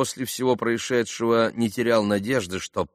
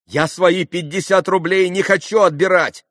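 high, loud refusal; sudden retort; 9 semitones higher, 6 dB louder than usual. A narrator's reading. Young man declines his fifty roubles, calling out. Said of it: "отозвался вдруг Колганов".

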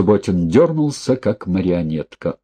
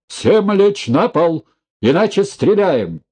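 police shout; 9 semitones higher than usual. A narrator's reading. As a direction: bark the order across the hall. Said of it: "Голос разрезал зал".

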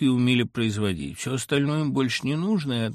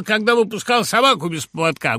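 high loud accusation, собаку punched; mother flaring up; 9 semitones higher, 7 dB louder than usual. Acted. Mother blaming her son for the dog, high loud shout. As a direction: hurl the blame at him. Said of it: "воспламенилась".

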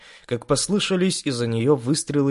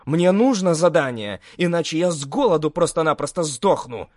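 angry desperate demand; 5 semitones higher than usual. Acted.

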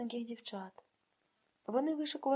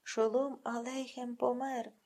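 slow, mock-solemn lament; theatrical mourning; slower than usual. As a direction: mourn it like a hammed-up stage grief. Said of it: "театрально закочує".

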